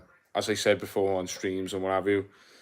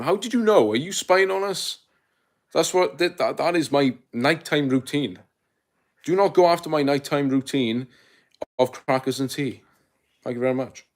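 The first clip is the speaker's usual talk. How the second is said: mock offended; 4 semitones higher than usual. A streamer to a roasting commenter, high mock indignation. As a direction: pretend outrage at being found out.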